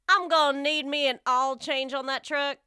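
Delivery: put-on light Southern accent; country truck owner, lightly voiced Southern. Host reads a redneck example sentence for the game, light Southern accent. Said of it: "I can do Southern".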